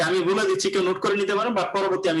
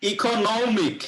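"ইকোনমিক" slow, নম stretched and higher; stress on নম; 4 semitones higher, much slower than usual. Shown as a demonstration. Teacher answering how it is pronounced, slowly stressing নম. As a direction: draw out the নম in "ইকোনমিক". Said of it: "তারপরে নমের উপরে stress হবে".

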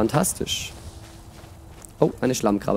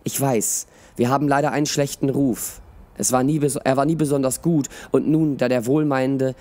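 expressive audiobook reading with voiced dialogue; measured storyteller, lively in the dialogue; story narration. A narrator's reading. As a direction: read it like a fantasy tale. Reads a story aloud.

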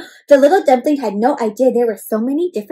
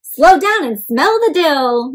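pierogi's calm advice; 3 semitones higher, 4 dB louder, slower than usual. Acted. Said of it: "he said".

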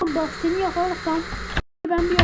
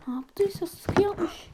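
hushed whisper; 6 dB quieter than usual. Real, not acted. Stunned remark mid-chase.

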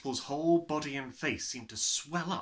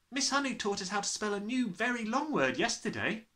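put-on boy's voice; 10 semitones higher than usual. Nigel boasting.

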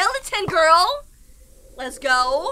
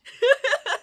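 short high laugh; light amused chuckling; giggle; 6 semitones higher than usual. Real, not acted. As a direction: giggle in delight. Amused by spider character.

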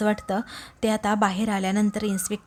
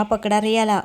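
a mildly raised, angry command; angry order; 4 dB louder than usual. Retold or imitated. Inspector ordering constables to seize Satya, angry. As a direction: snap the order out with some heat. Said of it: "असं रागातच inspector साहेब".

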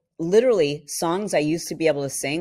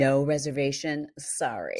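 snooty host. Retold or imitated. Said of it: "they're like".

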